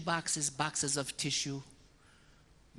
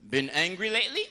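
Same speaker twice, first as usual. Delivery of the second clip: priest's probing question; 4 semitones higher than usual. Retold or imitated. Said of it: "confessional kung fu".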